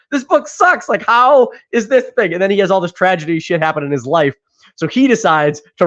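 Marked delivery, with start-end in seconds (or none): 0.1-2.3 higher voice settling into plain scorn; mock disgust, calmer. Writer repeating his verdict on the bestseller, scornful disbelief. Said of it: "and he's like".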